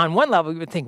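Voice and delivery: ordinary talk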